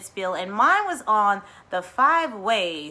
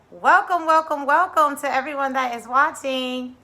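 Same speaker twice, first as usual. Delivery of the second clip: excited welcome; 6 semitones higher, 5 dB louder than usual. Real, not acted. Greeting viewers at start.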